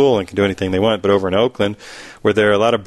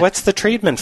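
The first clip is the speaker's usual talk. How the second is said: higher, lightly mocking mother voice; imitating mom, higher; 10 semitones higher than usual. Son mocking his mother's question, higher voice. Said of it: "that's how she sounds in my head".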